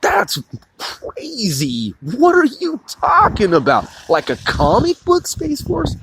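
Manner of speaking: a high, startled What? then scoffing disbelief; mock the baffled public; hammed-up disbelieving crowd; incredulous people. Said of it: "people are like".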